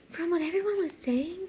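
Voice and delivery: lightly voiced woman, breaking from a laugh; retry her line after laughing; a touch of character voice; annoying woman voice, retried. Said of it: "giving her such an annoying voice".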